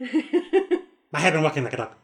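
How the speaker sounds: slow, grand theatrical reading; Shakespearean recitation. Retold or imitated. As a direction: recite like a stage king, laughing. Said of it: "reciting a song's lyrics as Richard the Third".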